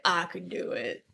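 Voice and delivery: quiet, low and lingering; low creepy imitation. Co-host repeating the line to show it sounds creepy. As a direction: say it like a creep in the dark. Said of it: "that's exactly how I just took it".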